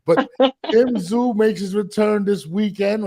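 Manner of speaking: high Texas twang. Pretend. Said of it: "All I have is this Texas accent".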